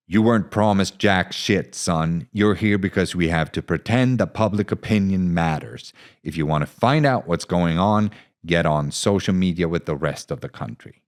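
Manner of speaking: lightly voiced scornful officer; contemptuous captain. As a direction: sneer at the kid. Bede mocking reporter.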